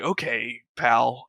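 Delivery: low, softened mock-dad aside; dad's wary reaction. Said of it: "He'd just be like".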